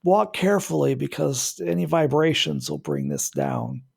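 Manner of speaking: lightly voiced old neighbor on a cane; old man voice. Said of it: "the old man voice".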